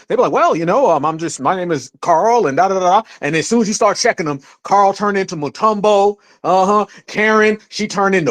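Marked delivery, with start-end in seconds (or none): 0.3-3.0 lightly imitated careful, proper speaker; mock precise talk. Newcomer introducing themselves while cosplaying locals, mock precise talk. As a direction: make a show of trying to sound precise. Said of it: "they be talking all precise or trying to".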